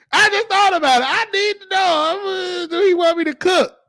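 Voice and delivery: character voice. Acted. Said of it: "I done lost my voice today and talk to y'all like this".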